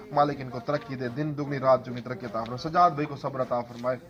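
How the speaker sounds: prayer. Acted. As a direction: pray earnestly, then close in hushed Arabic. Prays for bereaved family. (دھیمی پرسوز دعا)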